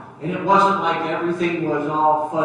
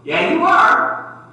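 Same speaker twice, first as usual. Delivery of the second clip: slow, loud shouted "yeah, you are"; God overruling the boy with a slow shout; booming God; 4 semitones higher, 4 dB louder, much slower than usual. Retold or imitated. God answers the reluctant preacher, slow booming shout. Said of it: "And God says".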